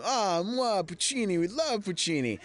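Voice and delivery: high, mock-adoring chorus of extras; fawning extras. Extras kissing up to the star, high mock-adoring gush. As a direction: gush over Puccini like a suck-up. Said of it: "fifteen guys around me are all going".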